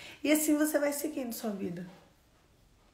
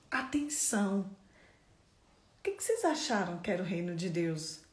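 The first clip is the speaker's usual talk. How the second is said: ordinary talk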